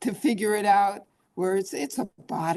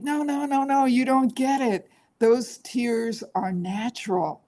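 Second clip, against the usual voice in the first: warm reassurance; 5 semitones higher than usual. Retold or imitated. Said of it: "And it's like".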